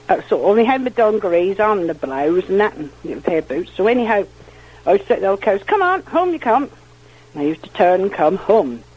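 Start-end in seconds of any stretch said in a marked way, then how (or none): 5.6-6.7 cattle call. Retold or imitated. Girl calling cows home from the meadow, retold cattle call.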